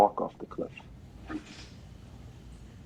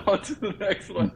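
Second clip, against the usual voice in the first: breezy goodbye; slower than usual. Retold or imitated. Mocking dismissal after warning.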